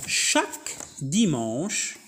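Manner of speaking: dimanche with a rise, then a breath; pause at the comma. Shown as a demonstration. Teacher showing how to pause at a comma. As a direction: stop briefly after dimanche. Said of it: "je dois respecter la ponctuation".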